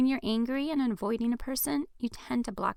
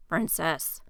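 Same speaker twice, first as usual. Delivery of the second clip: yell; 4 semitones lower, 4 dB louder than usual. Acted. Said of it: "Jaden yells".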